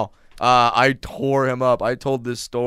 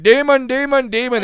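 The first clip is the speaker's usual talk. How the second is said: high, loud frantic repeated cry; mock hysterical stranger shrieking; panicked yelling; 12 semitones higher, 7 dB louder than usual. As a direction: scream it while running away. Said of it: "he's running through the airport".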